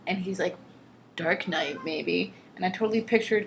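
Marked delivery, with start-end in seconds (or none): 1.2-2.3 lightly lowered, half-hearted Batman growl; a hint of a mock Batman; bad Batman voice. Answering Anastasia as Christian, a lightly voiced bad Batman. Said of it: "in his Batman voice and just sounding really bad".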